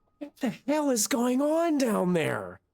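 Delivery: high character voice with pitch swooping and swinging. Voicing Arya calling out as the party rushes up the stairs: Arya's voice. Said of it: "Arya's voice saying".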